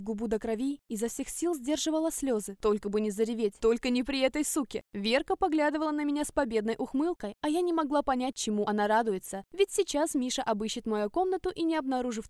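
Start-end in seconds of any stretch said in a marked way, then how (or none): none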